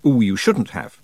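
mock-delighted gift thanks; polite surprise. Imagined host thanking a visitor for a present, politely surprised. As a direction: coo it as politeness expects. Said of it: "supposed to be surprised".

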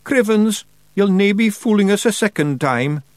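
high, loud Scots pixie cry; Feagle voice. Acted. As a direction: yell like an indignant wee Scots pixie. Feagle shouting from hiding.

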